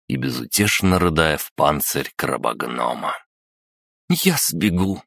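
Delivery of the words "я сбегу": put-on firm, higher girl's voice; determined girl. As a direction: declare it with resolve. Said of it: "решительно заявила Рита".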